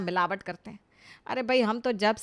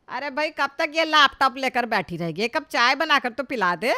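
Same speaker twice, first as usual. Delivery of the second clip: louder, nagging call across the room; impatient calling out; 3 semitones higher, 5 dB louder than usual. Acted. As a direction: demand tea impatiently. Mother-in-law calls daughter-in-law.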